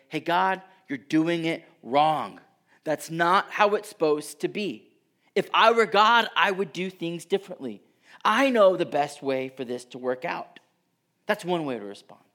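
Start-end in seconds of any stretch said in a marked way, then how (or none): 0.1-10.6 proud protest. Pretend. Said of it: "respond in pride and say".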